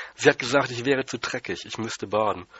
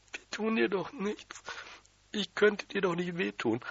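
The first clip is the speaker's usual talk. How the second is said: hohe, langsame, weinerliche Frauenstimme; weinerlich; 10 semitones higher, 3 dB quieter, slower than usual. A narrator's reading. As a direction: heulend beschwichtigen. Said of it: "hat natürlich wieder geheult". (heulende Tante, hoch und weinerlich)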